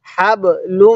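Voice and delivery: crisp stop on হাব, hummed m held in লুম; tajweed model. Shown as a demonstration. Teacher showing how lam joins mim, nasal hum on লুম. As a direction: bounce off হাব, then hum the end of লুম. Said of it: "কিভাবে শিখব".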